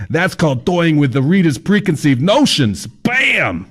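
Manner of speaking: high, breezy know-it-all guide; fat man's voice. Acted. Fat man explaining to Kyle, high cheery voice. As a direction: lecture the writer like it's obvious.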